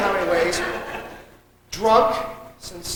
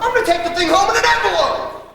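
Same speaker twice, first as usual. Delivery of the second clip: outraged complaint; 5 semitones higher than usual. Acted. Outraged about his new car.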